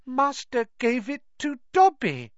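high, awed elf voice; wondering high-pitched elf; Dobby in wonderment. A narrator's reading. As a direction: marvel at it in a high creature voice. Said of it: "said the elf in wonderment".

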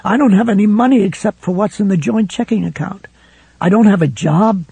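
a wife breaking down in fear; tearful panic. A narrator's reading. Helen asking Ralph where she'll go, tearful.

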